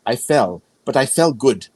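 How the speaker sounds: put-on light German accent, grandmother voice; imitating a German grandmother's accent. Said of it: "in her very German accent".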